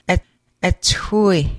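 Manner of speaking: "ethui" opening on a short schwa. Shown as a demonstration. Teacher modelling the schwa for learners, short uh. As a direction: start "et" with the uh of elephant. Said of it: "Schwa as in the word elephant".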